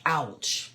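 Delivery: OUCH set apart with a falling tune; emphasised OUCH. Shown as a demonstration. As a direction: lean on the word OUCH, letting it fall. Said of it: "put an emphasis".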